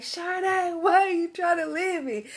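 high-pitched mock plea, laugh creeping in; lightly mocking whine of an abandoned boyfriend; imitating pleading ex. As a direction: mimic a clingy ex, amused. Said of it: "the way he said my name".

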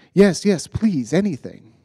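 eager pleading. Retold or imitated. Mother begging David to pray for her child, eager. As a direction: grab at any hope. Desperate mother accepts prayer.

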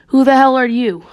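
confused. Acted. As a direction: demand it in mild confusion.

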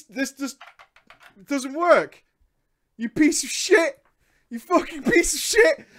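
high, loud outraged yelling; high loud disbelieving outrage; exasperated rant. Real, not acted. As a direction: rant at the absent seller, voice cracking. Ranting at the seller.

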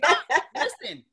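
loud, high laughing no listen; laughing protest. Real, not acted. Host laughing as he defends himself to the cohost. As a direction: laugh while insisting.

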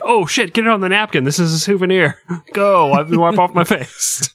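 high, excited gross-out cheer; excited crowd voice. Retold or imitated. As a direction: squeal like a splattered fan. Crowd members at gory show.

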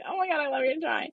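high, quick imitation of own fake rave; mock gushing. Mocks own lie, laughing replay.

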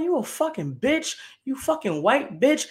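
high-pitched, indignant name-calling; heated insult, slowing at the end; retold angry insult. Retold insult at ride attendant.

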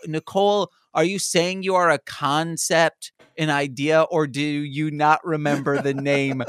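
incredulous. Retold or imitated. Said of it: "so I go".

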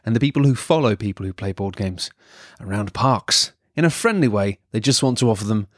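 lightly smooth radio-host intro; a hint of bedroom voice for the show's intro. Real, not acted. Host welcoming listeners to the board game podcast, bedroom voice. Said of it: "you're using your bedroom voice".

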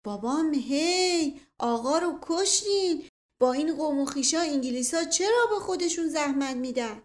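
high, loud servant's reproach; alarmed shout. A narrator's reading. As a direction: cry out that they have killed the master. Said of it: "فریاد زد".

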